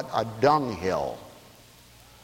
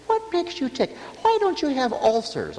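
questioning guy; 9 semitones higher than usual. Retold or imitated. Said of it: "Guy asked me the other day".

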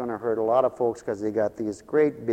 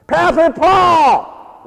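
high, loud drawn-out call; child yelling; 13 dB louder, much slower than usual. Retold or imitated. Little blonde boy yelling to his pastor, high loud call. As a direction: call out like an excited little kid. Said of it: "he always yells at me".

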